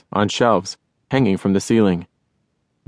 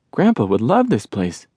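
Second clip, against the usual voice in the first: parrot mimicry. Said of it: "she said".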